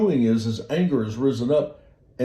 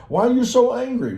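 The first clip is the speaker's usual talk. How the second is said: higher, louder incredulous question; taken aback; 12 semitones higher, 4 dB louder than usual. Acted. Onlookers to someone who just blew up, taken aback. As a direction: ask it like a startled onlooker.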